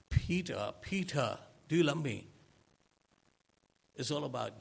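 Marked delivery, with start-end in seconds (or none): 0.1-2.3 insistent plea. Acted. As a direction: call Peter's name and push the question. Jesus presses Peter insistently.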